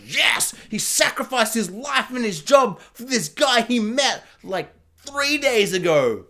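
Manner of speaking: hammed-up triumphant excitement; acted fan elation. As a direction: cheer it like a thrilled viewer. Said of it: "you're like".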